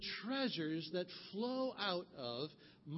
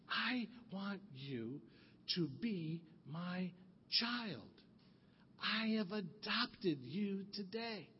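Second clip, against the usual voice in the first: tender, slow; slower than usual. Acted. Tearful man adopts the child.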